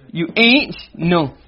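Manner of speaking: You ain't no stretched very slowly, each word drawn out; very slow demo. Shown as a demonstration. Teacher dwelling on the double negative, very slowly. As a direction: drag out ain't and no heavily. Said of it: "So double negative is what?".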